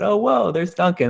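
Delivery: high, loud "whoa" of surprise; excited mock astonishment; surprised. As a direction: gasp it like you just spotted him. Spotting the comedian in window.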